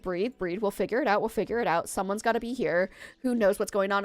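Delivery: a touch of soothing calm; retold calming reassurance. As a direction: lightly voice a manager talking someone down. Manager calming her down, retold.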